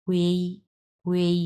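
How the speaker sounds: "হুয়েই" with h leading into u-e-i; measured model of "হুয়েই", middle e sounded; h joined to uei. Shown as a demonstration. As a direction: say "হুয়েই" as one level, gliding syllable. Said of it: "এটার উচ্চারণ হবে".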